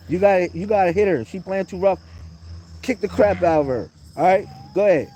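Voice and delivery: loud, insistent pep talk; urging on. Real, not acted. Urging child to hit back.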